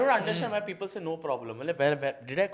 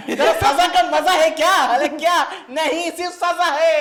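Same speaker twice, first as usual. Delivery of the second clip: excited laughing rant; 9 semitones higher, 9 dB louder, much faster than usual. Pretend. Mock quarrel over a joke.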